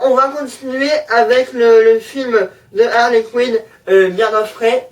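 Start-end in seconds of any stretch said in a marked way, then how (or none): 4.1-4.9 French-tinged English accent; attempted English accent. Real, not acted. Vlogger naming the film to viewers, attempted English accent. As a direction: try an English accent, self-mockingly. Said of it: "magnifique accent anglais".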